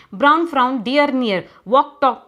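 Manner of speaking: brisk, quick-fire rhyming pairs. Shown as a demonstration. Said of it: "You have to say it faster".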